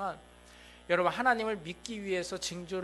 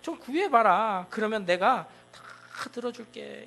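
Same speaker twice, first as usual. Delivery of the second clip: louder, slow, begging voice of God; God pleading; 3 semitones higher, 7 dB louder than usual. Retold or imitated. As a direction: coax the stubborn king, loud and slow. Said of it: "하나님이 너무 답답하셔가지고 뭐라고 얘기하신 거예요". (답답해서 애원하는 하나님 목소리)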